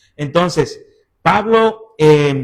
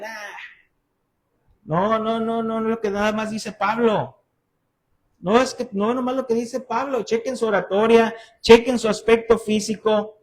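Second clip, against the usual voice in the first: dismissive critic, raised a little; mock dismissive; 3 semitones higher than usual. Critics putting down Paul to his converts, dismissive. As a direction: brush it off with mild scorn.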